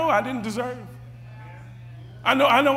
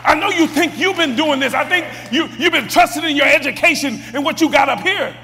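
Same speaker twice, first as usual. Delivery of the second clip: high, loud challenging preaching; fervent preaching; 5 semitones higher, 3 dB louder than usual. Acted. Preacher challenging listeners who doubt God, loud fervent preaching. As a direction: press the congregation hard.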